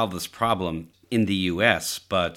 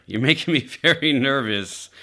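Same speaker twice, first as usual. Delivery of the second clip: laughing nervously mid-sentence; uneasy laugh breaking through; 4 semitones higher than usual. Real, not acted. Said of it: "This is nervous laughter you're hearing".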